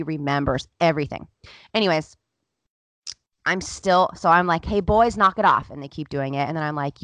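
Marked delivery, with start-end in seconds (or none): 4.7-5.7 raised-voice telling-off, re-enacted; retold scolding. Mother to the boys teasing her son, loud scolding. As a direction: call it out loud and firm.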